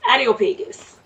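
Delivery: Areopagus with an unintended Jamaican lilt, the r turning into a d; slight Jamaican accent. Real, not acted. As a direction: let a hint of Jamaican slip into Areopagus. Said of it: "a little bit with my Jamaican accent".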